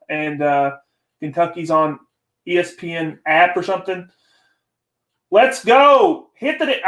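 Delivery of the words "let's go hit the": a loud, high cheer at the screen; real excited yell. Real, not acted. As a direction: fire up the team from the couch. Cheering his team on the broadcast.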